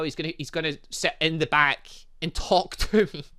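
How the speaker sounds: usual speaking voice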